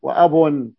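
وأب with a single short b; don't double the ب in وأب; b without doubling. Shown as a demonstration. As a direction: say وأب with an ungeminated b. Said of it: "هنا بدون تجديد".

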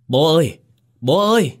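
high, loud cry for father; grief-stricken wail. A narrator's reading. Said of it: "ôm lấy xác cha gào lên". (gào khóc gọi bố)

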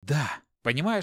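ordinary delivery, nothing marked

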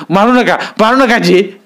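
high, begging cry for mercy; pleading. Acted. Fisherman begs Dada not to beat him, high pleading. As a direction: beg him to stop the beating.

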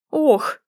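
gasped oh. A narrator's reading. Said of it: "выдохнул Марк".

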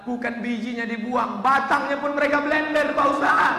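a mother pouring out grievances; complaining mother. Retold or imitated. Mother tells preacher about chilies.

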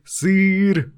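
put-on high, bright girl's "cheese"; little girl voice. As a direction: chirp it like a small girl. Girl says cheese for photo.

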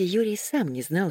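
usual speaking voice

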